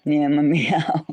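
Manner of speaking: whispered laugh to the cat. Real, not acted. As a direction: giggle it under breath.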